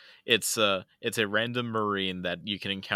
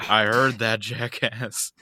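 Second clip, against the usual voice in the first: put-on Australian accent; 6 dB louder, slower than usual. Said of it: "Your Australian is not great".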